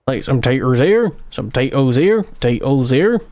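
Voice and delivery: put-on West Country accent, planting taters; lilting West Country accent. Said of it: "in a West Country accent".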